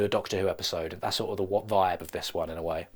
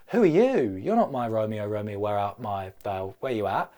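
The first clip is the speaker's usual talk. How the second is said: Juliet. Acted. Juliet voiced in pitch.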